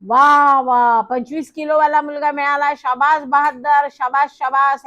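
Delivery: loud cheering announcer cry, slowing on शाबास; excited shout. Retold or imitated. Organiser cheers the boy at the scale, shouting loudly. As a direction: hail the winner like a showman. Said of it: "तो माणूस ओरडला".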